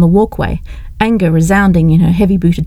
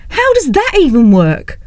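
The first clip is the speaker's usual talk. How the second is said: higher, slower, disbelieving; baffled young woman; 8 semitones higher than usual. Acted. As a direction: struggle to grasp it. Leslie baffled.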